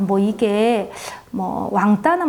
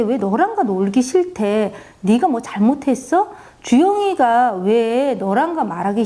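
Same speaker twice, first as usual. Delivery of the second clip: put-on a mother nagging her child for an explanation; pressing interrogation. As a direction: press the child hard for answers. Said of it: "아이를 막 닥달복달을 했습니다".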